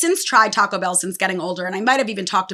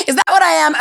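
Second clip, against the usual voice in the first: laughing; 4 semitones higher, 4 dB louder than usual. Real, not acted. Laughing at her own voice crack.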